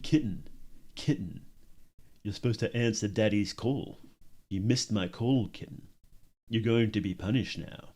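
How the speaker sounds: low, soft, teasing purr; deep Discord daddy voice. Shown as a demonstration. Teasing chat with a deep, soft Discord daddy voice. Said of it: "I can deepen it for you".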